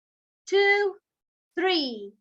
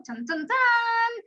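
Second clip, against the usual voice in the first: slow, higher mock suspense chant; dramatic drumroll; 5 semitones higher, slower than usual. Teacher teases the kids before the next animal, slow mock suspense. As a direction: build playful suspense with a slow dun, dun, dun.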